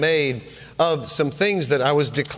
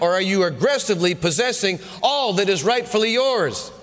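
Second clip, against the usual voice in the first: higher, pressing rapid-fire challenges; coach firing questions; 4 semitones higher than usual. Retold or imitated. Preacher quoting the Lord as a coach, demanding answers. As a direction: push him like a coach losing patience at halftime. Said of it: "our coach was getting after us".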